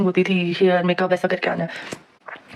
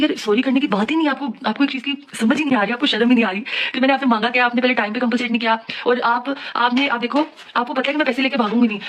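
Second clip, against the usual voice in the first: retold angry rant; 3 semitones higher than usual. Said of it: "मैं जज्बाती थी".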